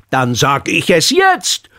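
langsam, gedehnt, mit steigender Tonhöhe; nachdrücklich. A narrator's reading. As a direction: setz dich als Lehrer Wort für Wort durch. Lehrer widerspricht dem Schüler gereizt. (mit gedehntem Nachdruck)

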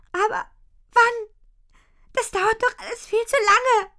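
hoch und laut, den Tränen nahe; verzweifelt, kurz vorm Weinen; zitternde Stimme. Acted. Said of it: "Mit zitternder Stimme sagt sie". (mit zitternder, weinerlicher Stimme)

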